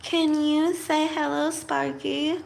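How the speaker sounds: pet talk. Real, not acted. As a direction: coax it like talking to a pet. Talks to the pet Sparky.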